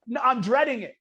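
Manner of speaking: emphatic, worked-up dread; retold dread. Kid dreading his first burger, emphatic dread. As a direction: replay the dread for comic effect. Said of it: "I'm scared out of my mind".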